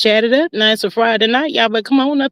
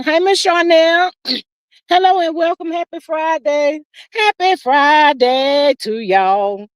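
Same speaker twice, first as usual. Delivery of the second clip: drawn-out high greeting; 5 semitones higher, slower than usual. Real, not acted. Greeting chat members, drawn out.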